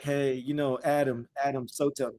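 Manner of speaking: a calm, easygoing word with a messy houseguest; gentle polite request. Retold or imitated. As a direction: ask nicely, trying not to offend the roommate. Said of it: "You're gonna try to talk to him like".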